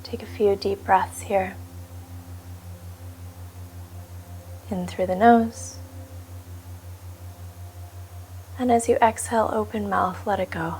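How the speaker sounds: calm, unhurried meditation guide with long pauses; guided meditation. Acted. Meditation teacher settling listeners into their seat, calm guiding voice. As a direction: settle listeners into stillness, leaving space between phrases. Leads a seated meditation practice.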